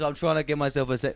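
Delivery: attempted Arab accent. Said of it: "is that a good Arab accent?".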